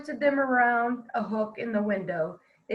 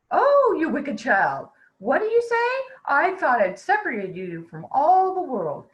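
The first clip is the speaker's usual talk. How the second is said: witch's rage; 4 dB louder than usual. Acted. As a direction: scold the wicked child in fury. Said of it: "In her rage".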